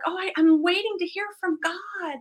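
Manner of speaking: high-pitched imitation of people stalling; hesitant believer. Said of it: "some people are like".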